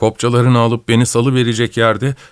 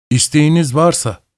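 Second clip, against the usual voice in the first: bored to bursting; 5 semitones higher than usual. Acted. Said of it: "iç sıkıntısından çatlayacakmış gibi".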